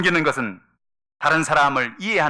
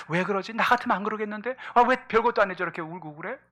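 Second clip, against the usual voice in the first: higher-pitched, acted incomprehension; baffled complaint; 8 semitones higher than usual. Husband baffled by his crying wife, puzzled complaint. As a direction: question it in a raised, puzzled voice.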